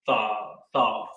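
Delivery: "tha" as a drawn-out THAH, said twice; pronounced "tha". Shown as a demonstration. Teacher repeats the new word for students, sounding out "tha". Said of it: "It's pronounced".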